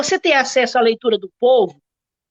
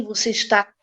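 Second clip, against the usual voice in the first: bem devagar, revelando. Shown as a demonstration. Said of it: "Abre devagarinho assim".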